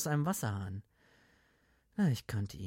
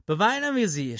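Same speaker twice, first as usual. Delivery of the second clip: mock solemn; 8 semitones higher, 8 dB louder than usual. Red mock agrees.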